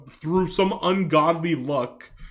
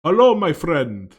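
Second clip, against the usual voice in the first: put-on Indian accent, loud; 7 dB louder than usual. Shown as a demonstration. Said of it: "I'll do one right now".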